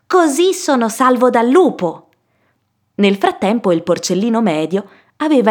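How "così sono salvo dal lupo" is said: higher-pitched piglet exclamation; lightly voiced happy piglet; relieved little pig. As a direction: exclaim like a piglet who feels safe. Pig exclaims over finished house.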